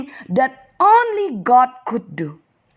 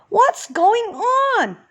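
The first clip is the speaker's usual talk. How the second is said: high, startled call of a blind man; confused blind beggar crying out; 13 semitones higher than usual. Acted. Blind Bartimaeus calls to the rushing crowd, alarmed. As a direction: call out lost and alarmed, wanting answers. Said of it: "cried Bartimaeus".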